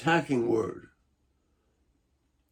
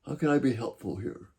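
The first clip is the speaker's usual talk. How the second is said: soft, gentle offer of help; quietly offering support instead of blame; supportive; 4 dB quieter than usual. Shown as a demonstration. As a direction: ease off and sound supportive. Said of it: "maybe it's the simple".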